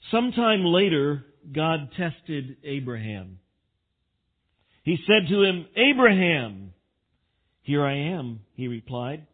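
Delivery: projected, deliberate Bible reading; scripture reading. Real, not acted. Preacher reads Genesis to the congregation, proclaiming it. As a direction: read it out in measured, emphatic phrases.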